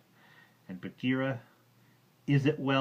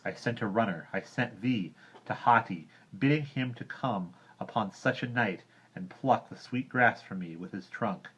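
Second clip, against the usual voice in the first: angry complaint; 8 dB louder than usual. Acted. Mowgli rebukes Bagheera, loud angry boy voice. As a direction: scold him with rising anger.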